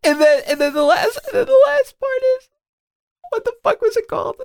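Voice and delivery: very high, squeaking through laughter; helpless laughter. Real, not acted. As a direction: try to talk while cracking up. Cracking up while recalling the title.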